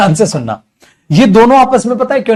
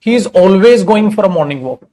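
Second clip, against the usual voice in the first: slow dictation; much slower than usual. Shown as a demonstration. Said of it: "so एक बात बताओ बेटा".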